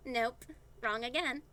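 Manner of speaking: slow, loud gloating; relieved and amused. A narrator's reading. Kelly gloating at Eli's wrong guess, slow and pleased. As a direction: draw it out, pleased. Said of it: "both relieved and entertained".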